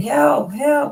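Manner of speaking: crying out, high and loud.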